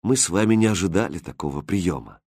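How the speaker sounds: quiet, rueful tenderness; sad and tender. Acted. Prince tells his roses sadly, soft tender. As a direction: speak gently to the flowers. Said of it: "грустно и нежно сказал Хрустальд".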